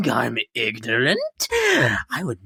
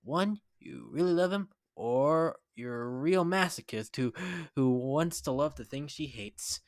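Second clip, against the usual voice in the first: much softer, hushed musing; soft aside; 9 dB quieter than usual. Acted. Rarity quietly musing about the kiss. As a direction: murmur it confidentially.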